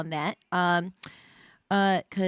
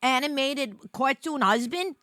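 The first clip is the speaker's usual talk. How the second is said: excited retort; 7 semitones higher, 4 dB louder than usual. Retold or imitated. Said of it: "I was like".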